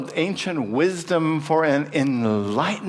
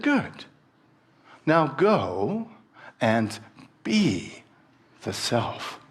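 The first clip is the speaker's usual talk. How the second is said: plain; much slower than usual. Acted. Sage's parting instruction.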